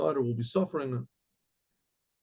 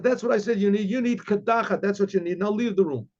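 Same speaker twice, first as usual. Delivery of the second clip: stern rebbe; 4 semitones higher than usual. Acted. Rebbe repeats verdict, dismisses her.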